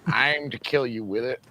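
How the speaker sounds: lightly imitated Southern film character; matter-of-fact threat in a put-on Southern voice; Sling Blade impression. Host quoting the killer's line, Sling Blade impression. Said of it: "Sling Blade?".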